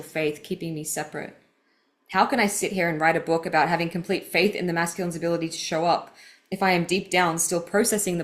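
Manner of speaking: measured, earnest read of personal writing; deliberate, heartfelt book reading; reading aloud. Acted. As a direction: read your own confession out with care. Reads her book passage aloud.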